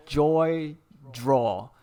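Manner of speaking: slow letter-by-letter spelling. Real, not acted. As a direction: give each letter its own space. Spelling out the link's name.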